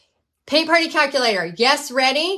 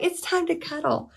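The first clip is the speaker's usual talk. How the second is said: voicing the dog; 6 semitones higher, 5 dB quieter than usual. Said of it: "She's like".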